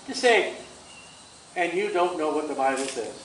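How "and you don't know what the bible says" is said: soft, low retort through a smile; lower, quietly sweet comeback. Shown as a demonstration. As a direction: needle them gently, smiling. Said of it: "Say it with a smile".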